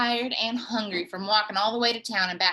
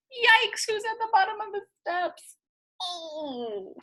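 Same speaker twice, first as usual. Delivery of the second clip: suspense; 10 semitones higher than usual. Acted. Suspense about cactus below.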